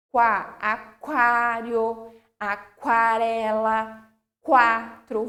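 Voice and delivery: slow quá, aquário, aquarela, quatro with a clear kw; every letter sounded. Shown as a demonstration. Teacher listing examples, slowly pronouncing every letter. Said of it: "Vou pronunciar todas as letras".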